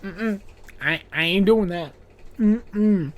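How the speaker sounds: dismissive mm-mm, no way; sassy refusal. Retold or imitated. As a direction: shut it down with attitude. Imagined refusal on call button.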